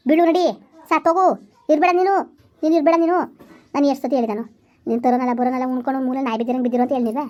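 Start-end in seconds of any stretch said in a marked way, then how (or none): 0.1-3.2 irritated scolding, slightly raised; angry scolding. Acted. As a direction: send him off crossly in short bursts. Acted quarrel, wife berates husband. (ಸಿಟ್ಟಿನಿಂದ ಬೈಯುತ್ತಾ)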